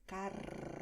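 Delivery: "Carro" with a strong rolled RR, breathy. Shown as a demonstration. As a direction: trill the RR of "Carro". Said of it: "¿Ves?". ("Carro" con la RR vibrante)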